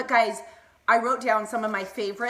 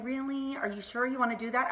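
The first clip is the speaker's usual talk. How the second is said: softer, skeptical questioning; imitated doubter; 5 dB quieter than usual. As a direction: mimic someone gently casting doubt. Imitating doubters of her career.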